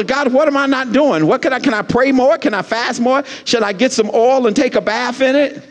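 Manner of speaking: high-pitched, exasperated questions to God; playfully plead, piling up the questions; mock frustration. Pastor asking God what he is not doing, mock frustration. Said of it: "I get frustrated too".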